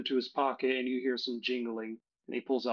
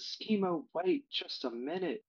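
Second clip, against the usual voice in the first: higher call after someone leaving; woman calling out; 6 semitones higher than usual. Acted. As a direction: call him back in a lighter, higher voice. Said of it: "She looks at Schemo and says".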